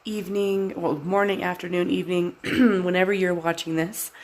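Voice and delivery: stuffy nose, congested and quiet. Real, not acted. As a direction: talk through a blocked, congested nose. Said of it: "I'm s-, sounding a little bit congested".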